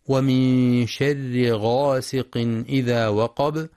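slow chanted tajweed recitation; Quran recitation. Shown as a demonstration. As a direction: recite it slowly with measured tajweed. (تلاوة مجودة بطيئة)

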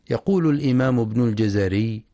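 ordinary delivery

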